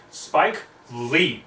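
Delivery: loud sharp order to leave; shouting at the dragon to leave. Acted. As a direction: yell him out of the room. Twilight shouting at Spike.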